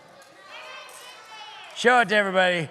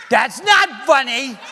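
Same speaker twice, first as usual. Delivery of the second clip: laughing protest; 3 semitones higher, 5 dB louder, slower than usual. Real, not acted. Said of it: "it's a little bit funny".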